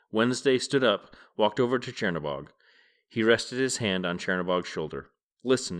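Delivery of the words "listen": peaceably. Acted. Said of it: "he said peaceably".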